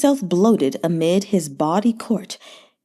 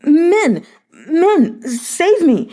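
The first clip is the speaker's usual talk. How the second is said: high, loud cries for help; desperate shouts; 8 semitones higher, 4 dB louder, much slower than usual. A narrator's reading. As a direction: scream for the guards while being smothered. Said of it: "muffled shouts came through the cushion".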